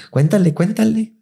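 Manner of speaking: high, slow egging-on; eager urging. Retold or imitated. Scene: Tormenta urges the housekeeper to tell, high. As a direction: egg her on to spill it.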